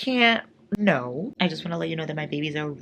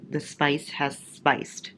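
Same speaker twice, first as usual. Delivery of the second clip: slow, drawn-out statement; slow plain; much slower than usual. Real, not acted. Reader announcing the spicy chapter to viewers, slowly. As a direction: let it land slowly.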